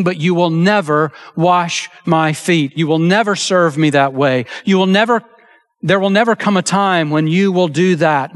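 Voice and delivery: each never pressed hard; demanding refusal; stress on never. Retold or imitated. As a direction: punch every never as Peter's refusal. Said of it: "Peter seems to be demanding".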